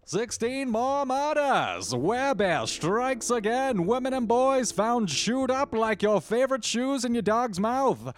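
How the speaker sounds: high, slow shouted newsboy cry; newsboy calling out. Acted. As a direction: hawk the headlines like a newsboy. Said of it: "a newsboy screaming out the latest bit of news".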